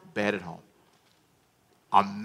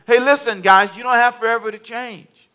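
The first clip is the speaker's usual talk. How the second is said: God's warning; 8 semitones higher, 7 dB louder than usual. Retold or imitated. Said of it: "This is God saying".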